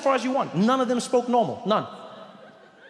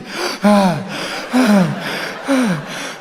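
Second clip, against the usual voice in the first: heavy panting breath; 7 dB louder than usual. Acted. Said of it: "panting in an alley".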